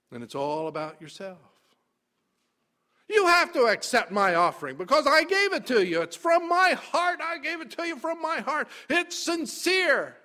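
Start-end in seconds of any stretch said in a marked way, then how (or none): 3.1-10.2 high, louder, self-righteous pleading; arrogant whine. Retold or imitated. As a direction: whine that you deserve it. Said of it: "a very arrogant position".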